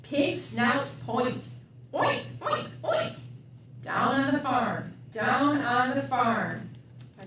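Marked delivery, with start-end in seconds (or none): 1.9-3.2 pig oink. Acted. Pig sounds.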